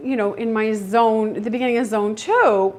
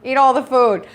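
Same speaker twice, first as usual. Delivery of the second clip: higher, louder, hammed-up hen voice; guinea hen welcoming squirrels; 4 semitones higher, 10 dB louder than usual. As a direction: play the hen inviting the squirrels over. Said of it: "She's like".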